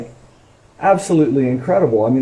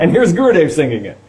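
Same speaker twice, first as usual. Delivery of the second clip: laughing; 2 semitones higher, faster than usual. Real, not acted. Laughing at own enthusiasm.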